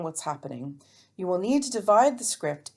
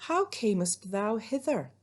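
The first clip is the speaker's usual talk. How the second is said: higher, slow maiden voice; Juliet; 4 semitones higher than usual. Acted. Teacher playing practical Juliet questioning Romeo, higher slow voice. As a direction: ask it slowly in a raised pitch. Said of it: "And then Juliet says, ever the practical one".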